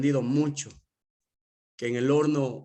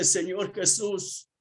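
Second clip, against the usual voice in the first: grateful prayer; 4 semitones higher than usual. Retold or imitated. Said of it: "lo primero que hacía es decirle".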